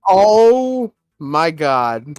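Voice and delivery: very slow, drawn-out amazement; mock awe. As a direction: stretch it out in stunned wonder. Retelling fans' awed reaction.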